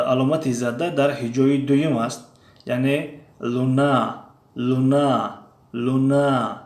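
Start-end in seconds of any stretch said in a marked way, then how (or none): 2.7-6.6 لونا said slowly, first syllable stretched; stress on lu. Shown as a demonstration. Teacher models the Russian word for students, stress on first syllable. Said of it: "لونا نمیگیم، لونا میگیم".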